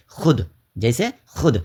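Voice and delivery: teacherly, set-apart خود with a short "u"; silent vao. Shown as a demonstration. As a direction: say خود as "khud", leaving the written و unsounded. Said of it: "جو لکھا تو جاتا ہے لیکن پڑھا نہیں جاتا ہے".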